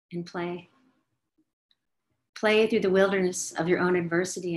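dreamy spoken meditation; guided meditation. Acted.

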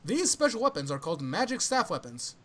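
hammed-up flamboyant summary reading. Reading spell lore to friends, mock flamboyant. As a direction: read it out with theatrical flourish. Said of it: "flamboyant voice".

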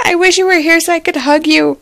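fast, teary wish; about to cry. Real, not acted. Vlogger tells absent sister she misses her, teary. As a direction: rush it out close to tears. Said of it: "I'm about to cry".

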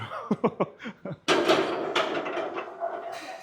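long voiceless laugh; real amused laughter. Real, not acted. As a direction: laugh it out breathily at length. Laughing after his remark.

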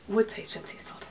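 name whispered in awe; hushed reverent naming. Shown as a demonstration. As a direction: whisper the scent name like a secret. Savouring the scent name.

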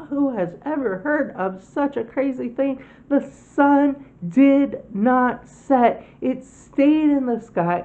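can't believe the sun stayed; astonished. Acted. Sun not setting, amazed.

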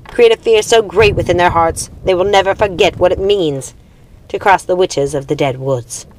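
a queen unleashing the dead, with relish; commanding witch queen. Acted. Minia ordering the dead to terrorise the living, commanding.

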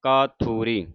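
ਕਾਥੂਰੀ with long kaa and long thoo; correct pronunciation. Shown as a demonstration. Teacher repeating after spelling it out, correct pronunciation. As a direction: lengthen both first vowels of ਕਾਥੂਰੀ. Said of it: "ਕੱਕੇ ਨੂੰ ਕੰਨਾ ਲੱਗਿਆ".

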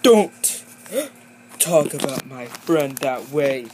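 angry outburst. Acted. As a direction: snap back to defend a friend. Defends friend in fight.

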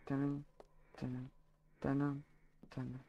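softly mimicking a repeated beep, fading; imitated sound. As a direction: copy the noise, trailing away. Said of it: "j'entends le tanin".

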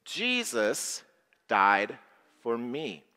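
spaced-out lead-along recital; group recital. Shown as a demonstration. Leading children in a spaced repeat. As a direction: pause between each word for the group. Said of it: "Say that with me".

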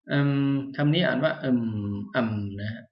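a hesitant, thoughtful um; thinking filler. Shown as a demonstration. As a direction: hum "เอิ่ม" while weighing an idea.

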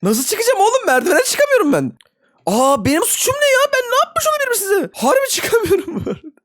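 high whiny voice, can't climb the stairs; whiny complaint. Real, not acted. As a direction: wail at being stuck on the ladder. Stuck, cannot climb ladder.

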